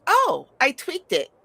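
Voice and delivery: high, slow proud niece; hammed-up niece bragging about her tweak; mock excited niece. Niece telling her aunt she changed the pie. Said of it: "she's like".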